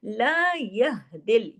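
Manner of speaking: very slow chanted recitation; Quran recitation. Shown as a demonstration. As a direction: recite with idgham, drawn out. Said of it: "आवाज हा की सीने की तरफ". (धीमी तजवीद वाली तिलावत)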